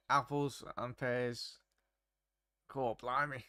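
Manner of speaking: a hint of a put-on Australian accent. Streamer reading out a phrase to chat, light Australian accent. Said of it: "read that out in an Australian accent".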